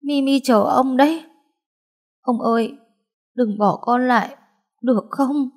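high, pleading voice; high-pitched, imploring granddaughter; pleading with grandpa. Acted.

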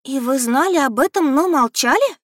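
высоко, громко, ошеломлённо; не веря своим ушам; ошарашенно. A narrator's reading. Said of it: "ошарашенно произнесла я". (ошарашенно, с возрастающей высотой)

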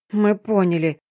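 ordinary delivery

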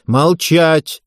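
mild coach's command; barked command. Acted. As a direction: snap the room silent. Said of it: "скомандовала Дарья Васильевна".

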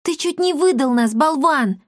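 high, sharp telling-off; scolding. A narrator's reading. Darina scolds Pima for nearly betraying them, sharp. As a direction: lay into him for his blunder. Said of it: "напустилась на него Дарина".

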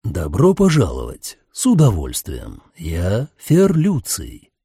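low, slow devilish driver; deep chest voice. A narrator's reading. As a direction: speak from deep in the chest, slowly. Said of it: "глубоким грудным голосом".

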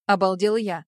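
ordinary delivery, nothing marked

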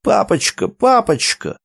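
put-on a child's cry, voice jumping high; lightly voiced boy yelling for his papa; shouting boy. A narrator's reading. Boy clinging to a man's leg, calling papa. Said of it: "и закричал".

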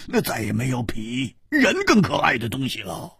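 musing, expansive drinker's talk; lightly voiced tipsy Hu Tiehua. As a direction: hold forth fondly over the wine.

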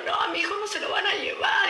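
a mother shouting that they won't take her son; retold shout at police. Madre gritando a la policía que no se lleven a su hijo. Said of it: "Y empecé a gritar".

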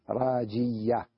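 راجية drawn out on the doubled ya; merged double ya. Shown as a demonstration. Teacher repeating the idgham example for students, held double ya in راجية. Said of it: "ندغم ياء ساكنة بياء متحركة".

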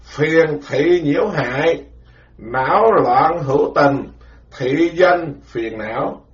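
deliberately slow, word-by-word recitation; slow chanted repeat for memorizing. Shown as a demonstration. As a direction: drill the phrase slowly so it sticks. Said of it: "phải nhớ từng chữ vậy đó nghe".

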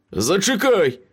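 high-pitched desperate call; crying out. A narrator's reading. Beaten Ace begs Meryl to hold off, crying out. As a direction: cry out to stop the next blow. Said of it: "крикнув він".

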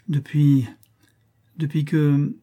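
put-on a child's halting stammer, on the verge of tears. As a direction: falter on depuis before breaking down. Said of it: "balbutia deux ou trois fois". (balbutiement d'une enfant au bord des larmes)

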